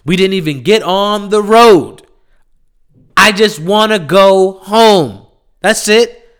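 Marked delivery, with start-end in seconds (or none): 3.1-5.3 slow tired plea. Real, not acted. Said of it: "repeated plea, slow take".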